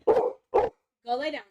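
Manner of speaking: loud, slow, drawn-out order to the dog; firm loud command. Real, not acted. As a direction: stretch it out and lay down the law. Dog ignores the first command.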